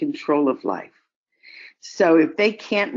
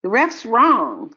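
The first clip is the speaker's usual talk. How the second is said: raised, slow insistent protest; mock yell; 5 semitones higher, 3 dB louder, slower than usual. Scene: a frustrated boy protesting a bad call, insistent raised voice. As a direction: kid calling out at the ref, higher. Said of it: "this kid yells out".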